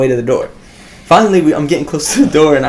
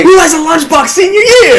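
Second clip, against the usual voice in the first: high, laughing mockery; teasing through laughter; laughing tease; 13 semitones higher, 4 dB louder than usual. Real, not acted.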